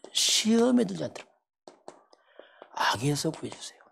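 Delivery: pleading whisper, close to tears; whispered prayer. Shown as a demonstration. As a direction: breathe the prayer as a tearful plea. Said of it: "이렇게 이제".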